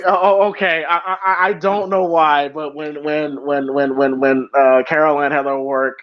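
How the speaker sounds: stammering, fighting tears; real tearful halting speech; choked up. Real, not acted. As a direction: get stuck on words while choking up. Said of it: "I know what choked up".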